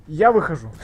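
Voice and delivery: high, loud exasperated yelling; excited yelling. Real, not acted. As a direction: yell it in disbelief. Stream outburst at enemy.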